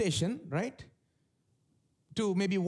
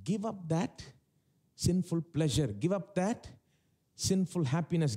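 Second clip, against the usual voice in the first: formulaic repeated exhortation, pausing mid-phrase; traditional church response. Retold or imitated. Traditional Christians advising a tempted believer, mildly imitated formulaic exhortation. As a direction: lightly imitate a stock church answer, rising to the last word. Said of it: "It goes like this".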